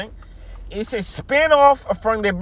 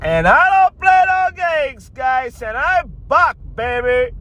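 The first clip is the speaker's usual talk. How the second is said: higher, put-on cocky co-host voice; Jinx voice; 7 semitones higher than usual. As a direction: swagger in as the brash sidekick. Jinx character introduced by host.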